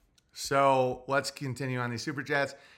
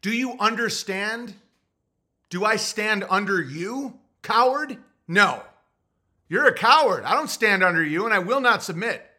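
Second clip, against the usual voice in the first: mock lordly defiance; 5 semitones higher, 3 dB louder than usual. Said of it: "I'm like".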